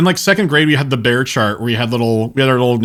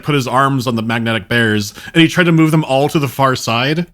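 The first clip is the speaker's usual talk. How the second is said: usual speaking voice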